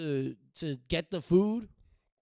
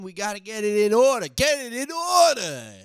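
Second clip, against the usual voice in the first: frantic; 5 semitones higher, 9 dB louder than usual. Acted. Frantic rush to get ready.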